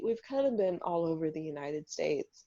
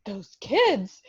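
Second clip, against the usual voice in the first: fifties lady tut; 6 dB louder than usual. Pretend. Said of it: "like one of those ladies in nineteen fifties".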